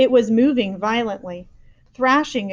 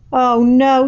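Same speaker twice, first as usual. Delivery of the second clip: louder alarmed cry; cried out; 4 semitones higher, 10 dB louder than usual. A narrator's reading. Giant hearing the bad dream, alarmed. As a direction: recoil in dismay. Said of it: "he cried".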